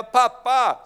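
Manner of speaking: put-on loud, high joyful cry of a child; child's happy shout. Preacher imitating a child calling its dad loudly. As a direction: call out Pappa like a delighted child.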